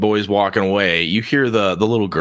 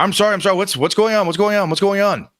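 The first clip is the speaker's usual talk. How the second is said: flustered apology; 9 semitones higher, faster than usual. Acted. Barkeep rushes out flustered.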